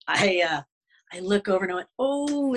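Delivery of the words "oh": high, drawn-out oh; a long rising-pitched "oh" of discovery; retold surprise. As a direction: re-enact spotting something startling. Startled on spotting a wolf.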